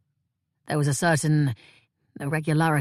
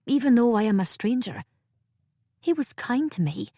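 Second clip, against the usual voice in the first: put-on higher, pleading young woman; Cray protesting in disbelief, pitched up and earnest; distressed young Cray; 6 semitones higher than usual. A narrator's reading. Cray refusing to believe Asgrim would do it, pleading and higher.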